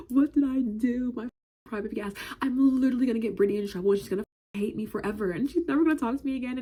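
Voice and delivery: high, fast crying panic; high sobbing little girl, fast and worried; panicked kid. Retold or imitated. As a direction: wail like a scared child. Panicking kid about to cry.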